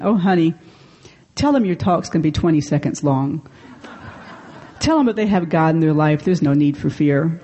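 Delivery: lightly imitated Southern accent; elderly friend's Southern voice, affectionately imitated. Elderly friend advising on a talk about fear, imitated Southern accent. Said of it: "in her best Southern accent".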